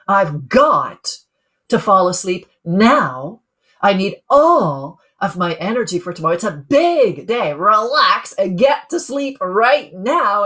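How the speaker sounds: firm, demanding self-orders with "got" held and pressed; a hint of drill sergeant cracking the whip. Shown as a demonstration. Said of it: "I sound like the Army drill sergeant cracking the whip, demanding it".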